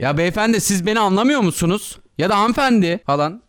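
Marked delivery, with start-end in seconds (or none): 0.0-2.0 a touch of annoyance under formal address; formal words, irritated undertone; mildly irritated politeness. Pretend. Showing a friend how "sir" can signal anger, mildly irritated. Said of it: "sinirlenme emareleri". 2.4-3.0 irritated formal address. Pretend. Showing a friend how "madam" can carry anger, mock irritated. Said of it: "sinirlenme emareleri".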